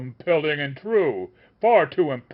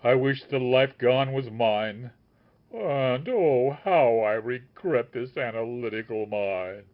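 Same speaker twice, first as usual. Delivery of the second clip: anguished lament; 7 dB louder than usual. A narrator's reading. The master wails over the dead sage, loud.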